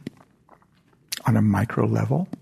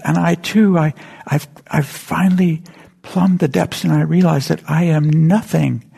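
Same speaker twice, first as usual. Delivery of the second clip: higher and louder, a mock tearful outpouring; tearful confession; 5 semitones higher, 6 dB louder than usual. President confessing to the congregants, higher, louder, mock tearful. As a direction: pour it out like a man half in tears. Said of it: "And he's crying too".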